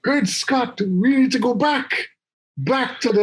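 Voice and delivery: high-pitched, urgent mad-inventor exclamations; Doc. Acted. Co-host playing a time traveller to his sidekick, high and urgent.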